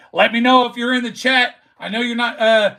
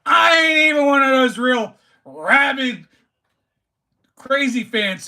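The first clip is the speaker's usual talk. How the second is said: hype shout; 4 semitones higher than usual. Real, not acted. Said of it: "bringing the heat like this".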